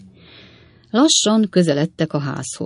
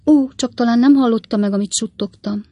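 high-pitched coy question; blushing lady; 7 semitones higher, 4 dB louder than usual. A narrator's reading. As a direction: ask bashfully, pitched well up. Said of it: "kérdezte pironkodva". (pironkodó, magas női hang)

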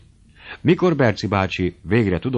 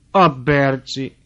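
slow, drawn-out, louder and higher exclamation; cry of surprise; 6 semitones higher, 6 dB louder, much slower than usual. Acted. Old aunt spotting Berci as she enters, crying out. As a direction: call his name out in delighted surprise. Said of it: "kiáltott fel".

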